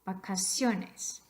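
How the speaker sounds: vacaciones slowed, emphasis on "cio"; slow demonstration of vacaCIOnes; stress on second-last syllable. Shown as a demonstration. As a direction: draw out vacaciones, leaning on CIO. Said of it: "You hear it on the second to last".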